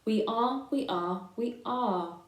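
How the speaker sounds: sheep chanting together; flock chorus. Acted. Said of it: "chorused the flock".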